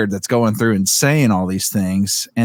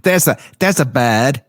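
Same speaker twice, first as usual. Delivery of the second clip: put-on Boston accent; 4 semitones higher than usual. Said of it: "however the accent".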